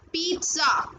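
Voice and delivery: पिज़्ज़ा said as "peet-sa", with a ts sound; correct pronunciation. Shown as a demonstration. Teacher showing students: पिज़्ज़ा with a ts sound. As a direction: say पिज़्ज़ा with a clear ts in the middle. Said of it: "इसकी correct pronunciation क्या है".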